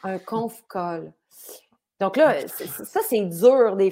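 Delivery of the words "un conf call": conf call said slowly; slow explanatory repeat. Shown as a demonstration. Explaining the French guy's term, slow CONF CALL. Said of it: "il voulait dire un appel conférence".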